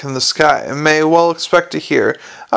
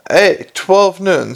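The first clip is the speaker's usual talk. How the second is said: slow, high little imp voice; a cheeky imp speaking slowly; giggly sneering imp; 4 semitones higher, slower than usual. Acted. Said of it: "said the imp".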